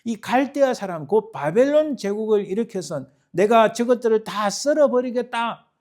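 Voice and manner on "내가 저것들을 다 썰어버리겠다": raised, high threat of judgment; loud, emphatic vow; fierce decree. Acted. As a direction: declare it forcefully as God's verdict. God's threat of judgment, acted.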